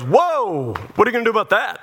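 hammed-up concerned tradesman; mock alarm. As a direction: imitate an expert suddenly alarmed. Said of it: "he changes from, like, expert guy".

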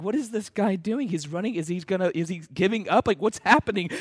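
softly voiced puzzled onlookers; hushed, halting bewilderment, lightly acted; mock confusion. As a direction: imitate baffled soldiers questioning among themselves. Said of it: "Nazis are so confused".

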